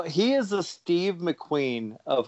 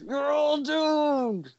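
slow doomsayer drawl; Crazy Ralph voice; 9 semitones higher, much slower than usual. Shown as a demonstration. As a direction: warn of doom slowly. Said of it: "I can't do the voice".

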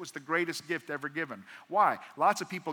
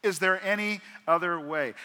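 anguished shout of protest to God; desperate loud plea; 4 semitones higher, 10 dB louder than usual. Acted. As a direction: cry it out higher and much louder, begging. Jesus begging God.

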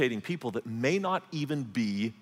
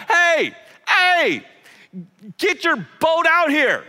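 much higher and louder, calling across water; yelling to partners; 14 semitones higher, 9 dB louder, slower than usual. Retold or imitated. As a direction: shout to the other boat far off. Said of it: "starts to yell at his business partners".

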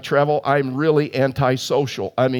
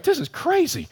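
far higher, softer disbelief; incredulous; 13 semitones higher, 3 dB quieter than usual. Retold or imitated. Pastor marvelling at the chatty stranger beside him. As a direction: squeak it out in disbelief. Inner reaction on plane.

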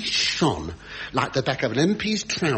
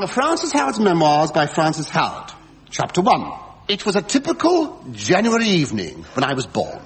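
grand memoir dictation; 4 dB louder than usual. Acted.

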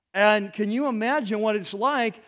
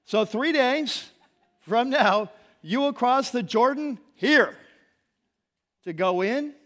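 excited proclamation; 4 semitones higher, 5 dB louder than usual. Acted. Proclaiming the crossing with music.

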